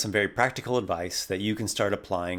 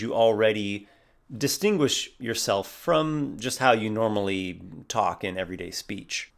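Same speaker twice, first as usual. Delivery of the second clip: usual speaking voice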